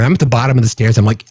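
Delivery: normal talking voice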